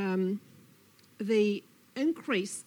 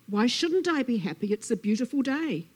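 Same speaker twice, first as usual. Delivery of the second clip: louder, animated snake voice; protesting Snake; 3 semitones higher, 6 dB louder than usual. Acted. Snake defends good mood to Lizard, mildly defensive. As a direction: insist you are perfectly happy.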